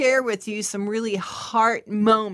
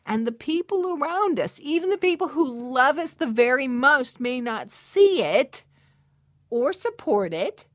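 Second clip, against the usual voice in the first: higher and louder, building passion; rising fervor; 4 semitones higher, 5 dB louder than usual. Real, not acted. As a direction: lift the congregation.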